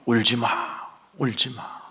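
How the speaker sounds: hushed heavenly consolation, lightly acted. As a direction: breathe comfort to someone weeping. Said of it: "하늘에서 소리가 들려요". (하늘의 음성처럼 나직한 위로)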